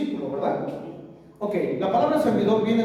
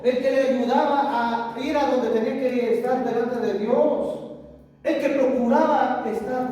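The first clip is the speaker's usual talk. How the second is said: fervent preaching; 5 semitones higher than usual. Acted. Preacher rising to climax.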